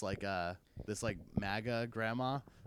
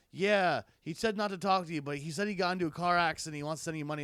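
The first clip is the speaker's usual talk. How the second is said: higher, louder worried mom voice; mom quote; 4 semitones higher, 6 dB louder than usual. Retold or imitated. Son imitating his mom relaying a scam call, higher and louder. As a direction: relay the news like an alarmed mom. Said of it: "she's like".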